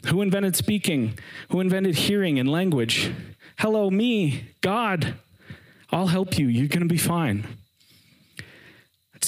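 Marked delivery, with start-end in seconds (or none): 0.0-7.4 higher, fed-up and incredulous; a God running out of patience with Moses; exasperated God. Retold or imitated. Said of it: "God's kinda getting to the end of his rope".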